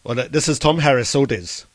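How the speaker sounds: feeble Northern Irish attempt; pathetic Irish accent. Shown as a demonstration. Host retrying caller's phrase, pathetic Northern Irish attempt. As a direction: try Northern Irish and do it badly.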